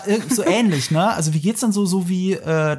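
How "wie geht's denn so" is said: a touch higher, lightly smug Joey flirt; half-hearted Joey come-on; Joey's pickup line. Retold or imitated. Comparing the dub line to Joey, lightly flirty. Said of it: "der Anmachspruch von Joey in Friends".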